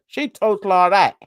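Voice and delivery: loud, put-on London accent; London accent, lightly mimicked. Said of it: "listen to the way she talk".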